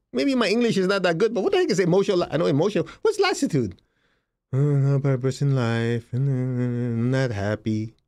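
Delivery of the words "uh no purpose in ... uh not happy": lightly voiced billionaire. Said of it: "billionaire's answer voiced".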